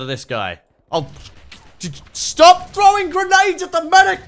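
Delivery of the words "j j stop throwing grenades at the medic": high, loud yell through laughter; laughing shout. Real, not acted. Player yelling at a soldier grenading his own medic, laughing shout. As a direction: shriek it, half laughing, half horrified. Friendly fire again.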